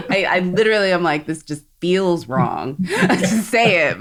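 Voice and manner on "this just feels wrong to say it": slow, laughing through the words. Real, not acted. Host quoting the movie line, laughing and slow. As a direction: let a laugh break the line. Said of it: "trying to be accurate to the quote".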